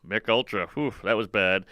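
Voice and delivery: low, mocking repeat of the punchline; lightly voiced taunting heckler echo; a hint of a smug nerd mimicking. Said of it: "He'd go".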